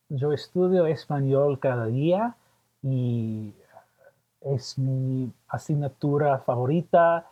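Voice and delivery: Spanish with an American accent; halting learner's Spanish, American accent. Real, not acted. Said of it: "I apologize for my terrible Spanish".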